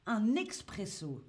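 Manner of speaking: expresso in a French accent, with "ks"; French pronunciation expresso. Shown as a demonstration. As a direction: say "expresso" the French way, ending on a stressed "o". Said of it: "dont on le prononce en France". (expresso à la française, avec « x »)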